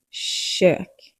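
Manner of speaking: "Kök" with a soft sh-like K; "Kök" begins with a breathy sh. Shown as a demonstration. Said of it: "Soft K".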